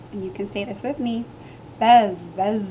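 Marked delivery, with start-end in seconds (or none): 1.8-2.6 louder imitation of bees buzzing. A narrator's reading. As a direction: buzz like a bee. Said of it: "The bees buzzed".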